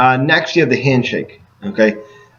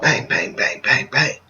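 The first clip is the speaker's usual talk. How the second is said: cop knock imitation; 5 dB quieter, slower than usual. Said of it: "you don't wanna sound like a cop".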